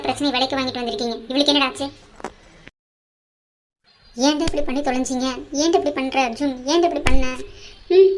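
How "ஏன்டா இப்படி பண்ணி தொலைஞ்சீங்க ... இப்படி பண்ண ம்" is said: angry scolding. Acted. Mother scolds son, escalating.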